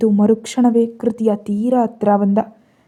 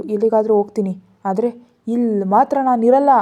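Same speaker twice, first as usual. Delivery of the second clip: crying; 4 dB louder than usual. Acted. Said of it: "ಕೃತಿ ಅಳ್ತಾ ಅಂದ್ಲು".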